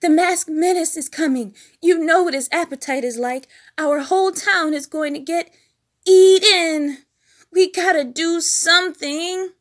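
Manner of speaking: high, loud panicky warning; frightened high urgent voice; Scooter alarmed. A narrator's reading. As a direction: warn them high and loud. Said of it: "Scooter came running".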